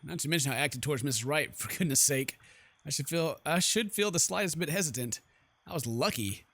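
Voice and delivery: low, measured narrator's read; story narration. Acted. Heroine recalls what she saw at the mansion, measured narration. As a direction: narrate it evenly, pausing between phrases. Reads game's narration aloud.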